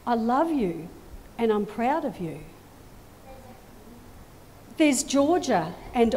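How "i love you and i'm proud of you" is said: tender blessing. Acted. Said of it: "God says to you".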